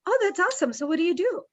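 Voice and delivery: high, eager mock delight; bright interest. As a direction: act thrilled, then ask what they do. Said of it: "And I say".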